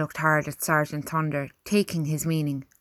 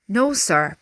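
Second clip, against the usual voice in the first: higher, disbelieving refusal; incredulous protest; 4 semitones higher, 4 dB louder than usual. A narrator's reading. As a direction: object in mild disbelief. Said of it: "Albert protested, still incredulous".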